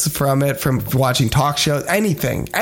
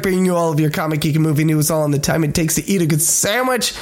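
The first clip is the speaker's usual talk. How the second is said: announcer; 3 semitones higher than usual. Acted. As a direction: welcome listeners like a host. Show intro announcer.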